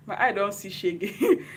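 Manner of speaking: slow, laughing through it; giggling with emotion. Real, not acted. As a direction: let the laugh break in, slowly. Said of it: "I'm already crying".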